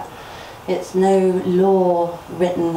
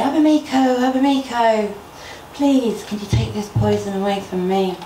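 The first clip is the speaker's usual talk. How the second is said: calling out; 3 semitones higher than usual. Acted. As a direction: call the name out to someone far off. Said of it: "So Marigold called out one day".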